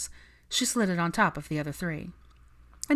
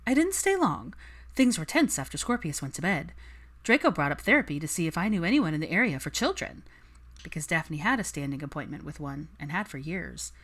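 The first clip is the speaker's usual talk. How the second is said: Daphne voice. Acted.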